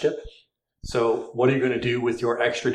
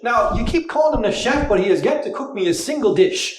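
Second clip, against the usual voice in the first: put-on light Irish accent; 10 semitones higher than usual. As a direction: draw it out in an Irish brogue. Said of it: "You do the Irish voice".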